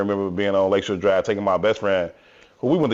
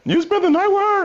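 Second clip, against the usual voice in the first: much higher mock girlfriend voice, accusing; shrill accusing girlfriend; 4 dB louder than usual. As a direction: squeak it out like a jealous girlfriend. Girlfriend confronts him in bushes.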